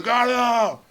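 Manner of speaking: very loud, slow bellow; shouted time call. Retold or imitated. Host timing the pitch over leaf blowers, slow loud bellow. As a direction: bellow each word like a countdown.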